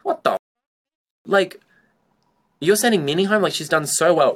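imitating disbelief at the elimination; retold shock. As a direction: shoot way up in pitch, stunned. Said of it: "I was shocked".

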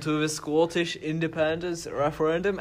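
put-on a light, half-hearted Scottish accent; a put-on Scottish accent that barely lands; bad Scottish accent. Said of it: "that was my Scottish accent".

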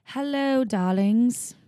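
high, purring hello darlings; femme fatale. Acted. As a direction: greet the darlings like a seductress. Sultry greeting to listeners.

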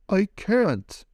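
protesting. Acted. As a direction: cut off mid-protest. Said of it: "started to say".

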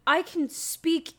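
lightly voiced talking-dog character, drawn-out start; a hint of a cartoon hero dog's voice; Underdog. Friend voices a talking dog answering the kid, lightly put-on character voice. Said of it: "that voice he just made for Underdog".

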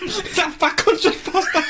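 rowdy Manc lad shout; broad Manchester, half-laughing; Mancunian accent. Acted.

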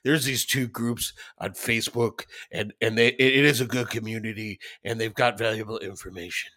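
deep, smooth sultry voice; low and velvety, like a narrator. Retold or imitated. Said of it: "he's got some deep, sultry voice".

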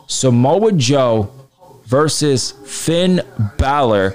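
slow, drawn-out entry announcement; top ten countdown. Acted. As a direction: spell out each name slowly.

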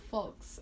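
"folks" with the L sounded; pronounced L. Shown as a demonstration. Host defending the spelling, L sounded in "folks". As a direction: let the L be heard in "folks". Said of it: "the letter L is in the word".

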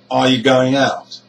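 "Are you" short and weak, GO and OUT stressed; "going out" with strong GO, weak -ing, long OUT. Shown as a demonstration. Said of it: "Word one and two are unstressed".

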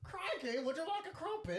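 very high, loud mock British accent; hammed-up, high-pitched British caricature. Shown as a demonstration. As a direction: squeal it in a bad British accent. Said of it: "you wanna hear my British accent".

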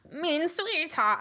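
slow mock German accent on mein sweetheart; slow put-on German lilt. Shown as a demonstration. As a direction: lay on a hammed-up German accent. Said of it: "I gotta do my German accent".

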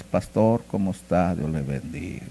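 imitated ingratiating hello; polite amiability. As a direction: greet the pastor with humble politeness. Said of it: "muy amabilidad".

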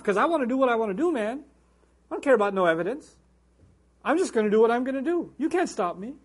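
mock defiant retort, a bit quick; brash, lightly acted defiance. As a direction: play the stubborn rebel who won't listen. Voicing defiant people ignoring evidence.

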